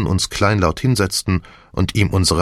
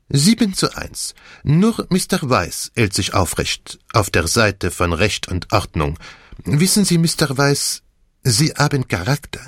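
put-on high, animated French-accented detective; Poirot; 5 semitones higher than usual. Detective sums up the vote, animated French accent. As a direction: pronounce it with theatrical relish.

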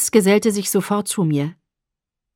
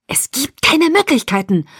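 higher-pitched, angry retort; snarled refusal; 6 semitones higher than usual. A narrator's reading. Edward rejects Alice's appeal, snarling. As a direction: snap it back at her. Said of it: "fauchte Edward".

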